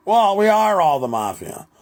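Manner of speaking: hammed-up proud mobster, drawn out; mock mafia boast. Voicing the Donovans answering Rob, high and loud slow boast.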